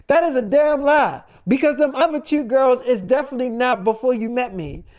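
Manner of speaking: imitating the wife's loud accusation; retold angry retort. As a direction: call out the lie, imitating her.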